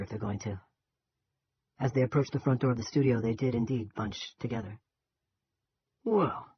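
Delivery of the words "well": lazy Western drawl, taking his time; John Wayne drawl. Acted. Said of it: "in a passable John Wayne drawl".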